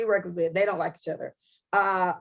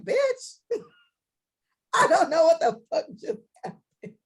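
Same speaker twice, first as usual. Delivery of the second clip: laughing disbelief; 7 semitones higher than usual. Retold or imitated. Calling her friend after the fight.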